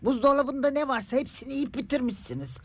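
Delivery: high-pitched, quickening list of grievances; indignant accusing. Acted. Mother accuses the neighbour of emptying her fridge, indignant. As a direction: complain crossly, pitch up, piling up each offence.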